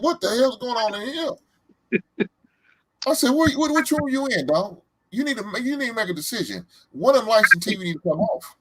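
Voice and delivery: mock exasperated dad. Dad scolding son over lights.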